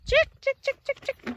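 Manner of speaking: high, loud "chick, chick"; loud chicken call. Real, not acted. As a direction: call the hen across the yard. Calling the chicken in.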